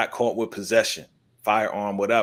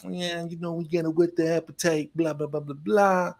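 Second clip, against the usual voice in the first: higher, placating imitation of excuses; mock brush-off; 7 semitones higher than usual. Radio DJ putting off the crew, mock brush-off. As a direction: imitate someone fobbing people off in a raised voice.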